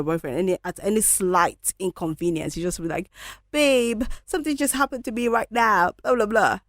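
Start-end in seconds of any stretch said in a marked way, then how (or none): 3.5-6.6 higher, whiny plea to a partner; lightly hammed-up needy partner voice; mock whiny babe call. Mock whiny call to boyfriend about a small inconvenience.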